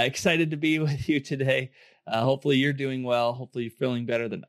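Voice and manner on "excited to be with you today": laughing through the words. Real, not acted. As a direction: chuckle mid-sentence. Repeats his greeting, laughing.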